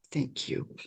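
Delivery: whispered thanks, barely voiced; hushed, intimate whisper; soft whisper. A narrator's reading. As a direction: whisper it very softly, tenderly. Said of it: "whispered very softly".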